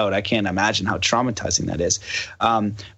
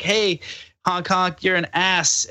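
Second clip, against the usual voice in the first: high mocking jeer at a driver; rude driver; 8 semitones higher, slower than usual. Imitating a rude driver honking, high mocking jeer. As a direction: taunt it high and cheeky. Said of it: "It's like".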